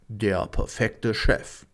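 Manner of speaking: slow dramatic trailer announcer. Pretend. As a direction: draw out the title like a trailer. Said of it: "Muss ja die Trailerstimme machen".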